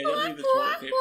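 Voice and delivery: high squeaky mock cry.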